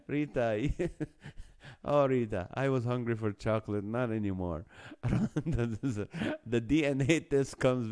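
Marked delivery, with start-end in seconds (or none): 0.8-1.8 mock laugh. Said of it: "scary laugh".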